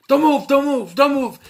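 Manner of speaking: high, loud frantic shouting; mock panicked yelling. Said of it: "And they're yelling".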